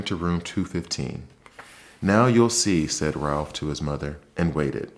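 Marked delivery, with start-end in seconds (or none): 2.0-2.9 triumphant. A narrator's reading. Ralph boasts to his mother.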